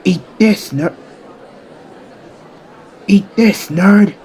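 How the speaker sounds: high, punchy battle cry; attack shout. Acted. Bakugo throws an explosion at Izuku, attack shout. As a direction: hurl it along with the blow.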